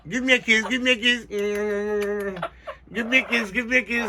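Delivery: high squawky parrot mimic. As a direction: chirp it like a parrot. Bird repeating high words.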